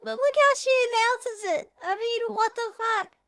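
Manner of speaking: high, loud incredulous outburst; outraged disbelief. Real, not acted. Vlogger reacting to the scene, high, loud disbelief. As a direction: blurt it in shocked outrage.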